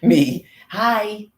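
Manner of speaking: loud, high "Me. Hi."; bright call-out; mock greeting call. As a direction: pipe up like an eager bird. Calling out brightly.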